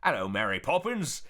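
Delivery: really bad Cockney, loud and hammy; over-the-top mock Cockney; Dick Van Dyke. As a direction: badly fake a Cockney greeting. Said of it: "really bad Dick Van Dyke impression".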